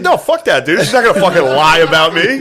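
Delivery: a hammed-up tantrum of a drunk friend, laughing through it; mock spazzing out. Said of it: "he spazzed".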